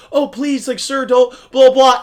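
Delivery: playful imitation of pleading; mock pleading. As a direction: lightly imitate a submissive younger chef. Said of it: "the other guy's kinda getting into".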